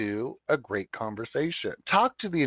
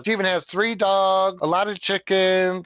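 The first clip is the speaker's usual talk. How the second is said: higher, louder, slower reading out; reading the file; 5 semitones higher, 4 dB louder, slower than usual. Retold or imitated. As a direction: read the note out like a file entry. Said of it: "it says".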